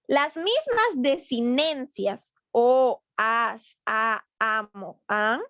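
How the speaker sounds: endings spoken slowly, one by one; slow, deliberate listing. Shown as a demonstration. Teacher to class, slowly listing endings. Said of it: "pointing out the endings".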